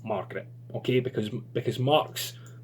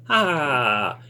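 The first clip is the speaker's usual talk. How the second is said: a hammed-up laugh, louder; mock laugh; 2 semitones higher, 5 dB louder than usual. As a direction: laugh it out like the man in the story. Story figure laughs.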